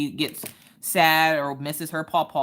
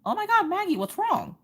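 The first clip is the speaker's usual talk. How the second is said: high-pitched worried fussing; retold motherly concern. Mom asks crying daughter what happened, retold high concern. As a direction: re-enact a mom's alarm, pitched up. Mom voices her alarm at tears.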